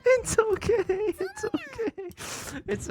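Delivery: very high, strained squeal through laughter; cringing falsetto wail, words stretched; mortified squeal. Real, not acted. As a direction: squeal it far up high, drawn out, half laughing. Cringing at own old journal.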